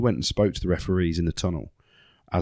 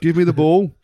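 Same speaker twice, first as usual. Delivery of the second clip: put-on Birmingham accent, much higher and louder; loud demand; 10 semitones higher, 5 dB louder than usual. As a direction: bellow for the ball in a Birmingham accent. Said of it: "You sound like a Peaky Blinder".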